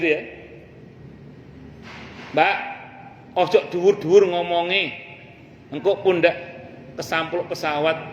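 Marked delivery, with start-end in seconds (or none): 2.3-8.0 stern rebuke. Retold or imitated. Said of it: "Kita tegur dengan nada yang agak, ya, gagah gitu".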